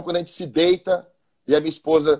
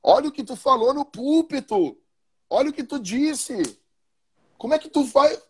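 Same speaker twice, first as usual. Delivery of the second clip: higher, chiding wife voice, light imitation; hammed-up scolding wife, pitched higher; mock wife scolding; 5 semitones higher than usual. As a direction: play the wife reproaching her husband. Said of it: "a tua esposa vai dizer".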